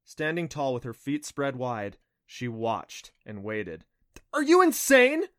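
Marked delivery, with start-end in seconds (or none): 4.3-5.2 high, strained, forceful stage whisper; strangled whisper. A narrator's reading. Adam to Clancy standing exposed, in a strangled whisper. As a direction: squeeze out an alarmed demand. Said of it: "demanded in a strangled whisper".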